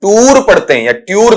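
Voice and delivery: "टूर" and "ट्यूर" ending in a sounded r; common mispronunciations. Shown as a demonstration. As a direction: say "टूर", then "ट्यूर", with a full final r. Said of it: "दोनों ही गलत हैं".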